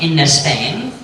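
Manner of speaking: "in Spain" with a small extra vowel slipped in before the sp; added little vowel. Shown as a demonstration. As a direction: slowly say "in Spain" as in-uh-Spain. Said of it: "If they add a little vowel".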